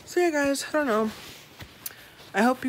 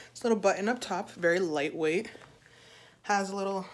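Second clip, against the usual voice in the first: winded from the stairs; puffing between words; gasping for air; faster than usual. Real, not acted. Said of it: "I'm out of breath".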